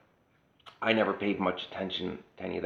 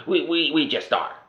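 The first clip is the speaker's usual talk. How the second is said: much higher, louder flustered boomer stammer; mock boomer; 9 semitones higher, 7 dB louder than usual. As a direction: squeak out the answer like a flustered boomer. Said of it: "mock boomer answer in argument".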